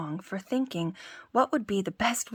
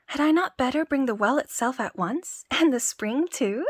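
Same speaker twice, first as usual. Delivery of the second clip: higher, louder boastful tailor; boasting tailor; 5 semitones higher, 4 dB louder than usual. Acted. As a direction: brag grandly to the giant. Boaster speaks.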